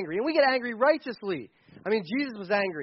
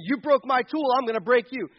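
mock angry threat; 4 semitones higher, 4 dB louder than usual. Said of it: "if I anger, respond in discipline".

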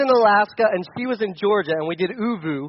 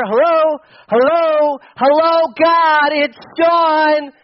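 high, loud hello, hello; praying to a God who seems not to hear; calling out to God; 8 semitones higher, 7 dB louder, much slower than usual. Retold or imitated. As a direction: call up as if no one answers.

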